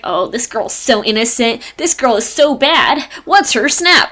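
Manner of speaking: playful retold swooning; mock infatuated man. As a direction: gush mockingly over a crush. Acted quote of infatuated narrator.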